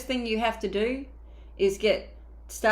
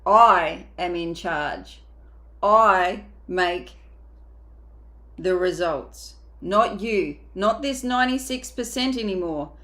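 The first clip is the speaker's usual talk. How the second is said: louder, slow and commanding: "I am in charge"; firm declaration; 5 dB louder, slower than usual. Acted. Coach telling her own mind who is boss, firm and loud. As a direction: plant each word like an order. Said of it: "and tell it".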